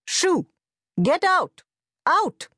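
a high, sudden yell; shout. A narrator's reading. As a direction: yell at the cow in the gate. Chasing cow out of gate.

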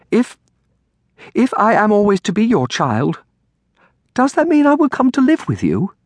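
put-on high, hesitant girlish voice; hopeful young Amelia. Orphaned girl asks to live with her aunt, hopeful. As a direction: ask haltingly as a child.

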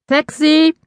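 high hailing call of "Taxi". A narrator's reading. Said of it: "Only in Lyudmila's mouth could the word come out".

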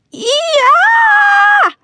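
high, loud slipping shriek; a sudden yelp as the foot skids. A narrator's reading. Tilly slipping on a chip, shrieking. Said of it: "Tilly let out a shriek".

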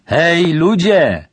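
high, slow, drawn-out call; uncertain shout. A narrator's reading. Lone stranger calls for people in a deserted square, hesitant shout. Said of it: "Ale nie za głośno, niepewnie jakoś krzyczał".

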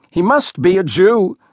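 put-on jeering boy. A narrator's reading. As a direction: announce it to the gang. Boys decide about newcomer.

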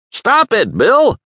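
high, loud alarmed call; cried out. A narrator's reading. Workman yelling to his coworker to stop. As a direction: yell to stop the machine. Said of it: "cried the workman".

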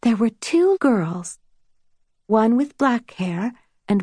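a sister telling a bedtime tale, lightly voiced; a lightly voiced storyteller beginning a bedtime story; storyteller's voice. A narrator's reading. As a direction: gently spin the opening of a tale. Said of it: "Rose whispered in her best storyteller's voice".

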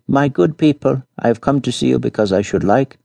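asking a huge favour with the voice nearly breaking; broken, trembling voice. Acted. Wealthy lady begging peasants for their boy, trembling voice. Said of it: "in a broken, trembling voice".

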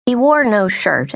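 ordinary delivery

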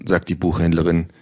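plain reading voice

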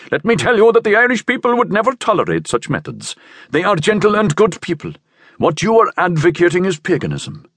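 high and fast, indignant scolding; angry protest. A narrator's reading. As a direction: lecture him in rising outrage. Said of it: "he cried angrily".

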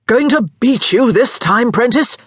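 put-on smug drunken challenge to a friend; boasting. A narrator's reading. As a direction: crow it like you've already won. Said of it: "Daniel boasted".

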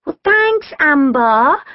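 high-pitched plaintive wail. A narrator's reading. Kim up the ladder complains to Amber, wailing. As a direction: wail it miserably at your sister. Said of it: "Kim wailed".

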